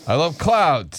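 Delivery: slow, simple-minded caricature; mocking slow-talker impression; mimicking co-worker. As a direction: proudly state it in stretched words. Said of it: "That's how you sound".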